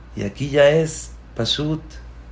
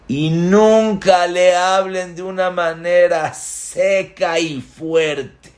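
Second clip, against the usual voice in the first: higher, louder admonition; stern warning; 6 semitones higher, 4 dB louder, slower than usual. Acted. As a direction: stress on nunca, raised and slow. Rabbi's warning to students.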